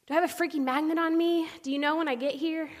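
retold exasperated snap, pitched high; high, irritated telling-off; hateful voice. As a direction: demand it with open resentment. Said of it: "the most hateful human voice I have".

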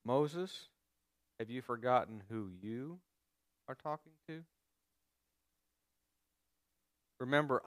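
steady, quiet assurance of the living God. Retold or imitated. Preacher voicing God reassuring Moses, quiet and calm. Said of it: "Let me translate that".

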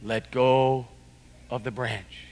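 voice from above. Retold or imitated. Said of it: "this voice said".

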